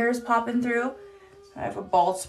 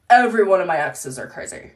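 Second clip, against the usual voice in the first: mock red-flag guy; 6 dB louder, faster than usual. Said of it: "And then there's this".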